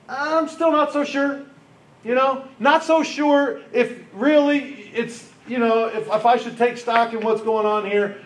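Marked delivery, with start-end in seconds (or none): 0.1-7.1 higher, slow, half-laughing doubt; hesitant and amused, slowly; doubtful Gideon. Acted. Preacher voices doubtful Gideon.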